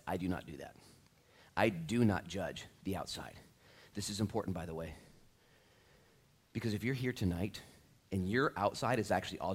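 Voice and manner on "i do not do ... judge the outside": low, measured emphasis on DO NOT; emphatic. Acted. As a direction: lay down "do not" firmly, word by word. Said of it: "God emphatically says".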